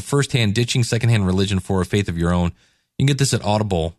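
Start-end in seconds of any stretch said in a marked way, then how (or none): 0.0-2.5 quick title repeat. Shown as a demonstration. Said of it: "And again, it's called".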